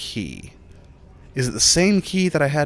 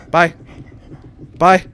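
louder mocking laugh and goodbye; gleeful taunting; 4 semitones higher, 7 dB louder, much slower than usual. Real, not acted. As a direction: gloat as you escape.

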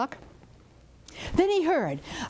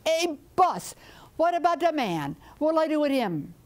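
higher, perky little helper; eager chicken voice; 5 semitones higher than usual. Acted. Chicken answering its boss Curupira, high and eager. Chicken asks about the man.

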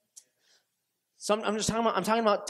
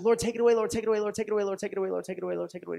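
repeated pleading prayer; 2 semitones higher, much faster than usual. Retold or imitated. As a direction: repeat it like a chant, trailing down. Retells repeated prayer, fading out.

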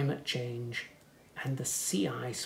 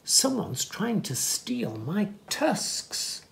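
slow, higher worried elephant voice; slow anxious elephant; hiding elephant; 6 semitones higher, slower than usual. Acted. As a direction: drag it out like a nervous elephant. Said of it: "said an elephant".

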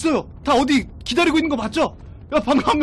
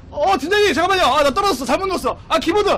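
raised, flustered yelling; dismayed outcry; 7 semitones higher, 3 dB louder, faster than usual. Real, not acted. Player fell after hitting the wrong key, dismayed yell. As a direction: wail over a blunder.

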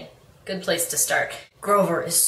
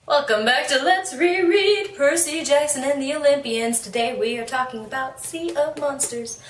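higher-pitched, lilting welcome; upbeat show intro; 7 semitones higher than usual. Real, not acted. Host greets viewers to the reread, upbeat intro. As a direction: open the show with a singsong lift.

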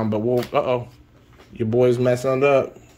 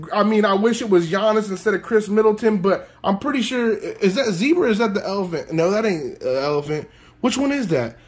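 fast, higher, still-buzzing chatter; breathless excitement; 6 semitones higher, faster than usual. Real, not acted. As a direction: rattle on, still wound up. Still overexcited after big pull.

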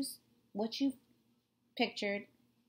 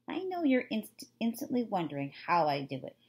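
story narration; 3 dB louder than usual. Acted. Reads novel chapter aloud.

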